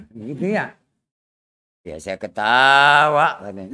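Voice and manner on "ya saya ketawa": calm answer. Acted. Dulah finally answers calmly.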